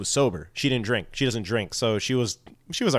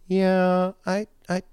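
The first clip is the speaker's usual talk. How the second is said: put-on drunk Shannon voice; 8 semitones higher than usual.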